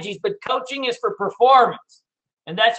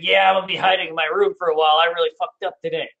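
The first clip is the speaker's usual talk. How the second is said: dejected self-quote; 6 semitones lower, faster than usual. Retold or imitated. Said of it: "I'm like".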